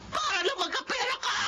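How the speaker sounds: angry accusation. Acted. Accusing friend.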